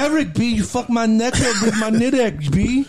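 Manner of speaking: complaining little brother. Retold or imitated. Injured brother complains to big brother about his neck, high and whiny. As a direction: play the hurt brother whining it up high.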